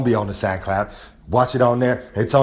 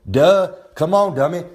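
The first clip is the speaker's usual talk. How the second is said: mocking; 5 semitones higher than usual. Real, not acted. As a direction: scoff at the dummy. Mocking the listener.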